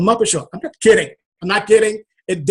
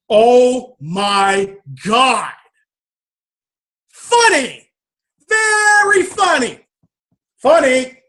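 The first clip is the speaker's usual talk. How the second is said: high, cracking half laugh half cry; laughing through tears; 5 semitones higher, much slower than usual. Retold or imitated. Man overcome on stage by his own revelation, laughing and crying. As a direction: let the realization crack you up.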